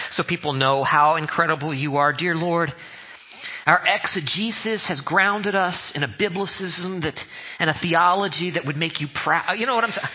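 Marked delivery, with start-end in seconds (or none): 2.1-9.6 highfalutin prayer. Retold or imitated. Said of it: "highfalutin eschatological, soteriological words".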